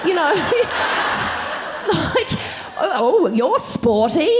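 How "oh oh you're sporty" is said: slow, laughing through the words; half-laughed quote; laughing mock quote. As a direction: giggle out the misheard compliment. Mocking friend's mishearing.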